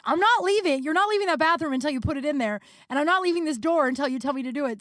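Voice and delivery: high, quick-fire grandma ultimatum; imitated grandma yelling. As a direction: imitate grandma laying down the law through a door. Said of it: "on the other side of the door yelling at me".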